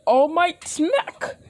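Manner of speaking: high, drawn-out hammed-up yell; attack cry. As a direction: shout the slap like a special move.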